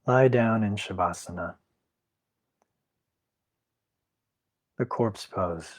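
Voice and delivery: calm guided Yoga Nidra instruction, unhurried; guided meditation. Acted. Teacher settles class into corpse pose, guided meditation. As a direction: lead them into rest with long pauses between instructions.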